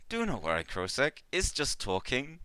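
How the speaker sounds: affectionate. Acted. Ikmar reassuring Krosek after the outburst, affectionate. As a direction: pat him on the shoulder with your voice, soothing. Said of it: "very affectionately and just goes".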